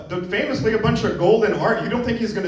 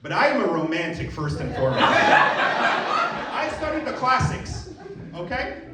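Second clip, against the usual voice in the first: mock romantic writer. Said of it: "it's a guy who's like".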